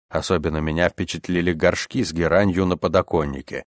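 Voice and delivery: usual speaking voice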